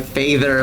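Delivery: "feather" said as "fey-ther"; "feather" opening like "fey". Shown as a demonstration. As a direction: say "feather" with an "ay" vowel. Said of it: "like, fey instead of feather".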